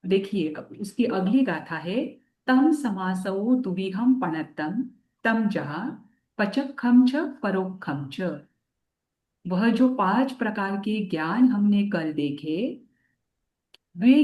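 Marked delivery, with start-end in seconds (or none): 2.5-8.2 scripture recitation. Acted. Teacher recites scripture verse.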